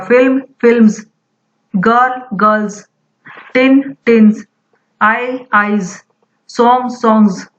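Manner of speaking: फिल्म्स गर्ल्स टिन्स आईज सॉन्ग्स all end in z; z plural ending. Shown as a demonstration. Teacher drills z plurals for the class, voiced endings. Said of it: "pronunciation में ज sound आएगा".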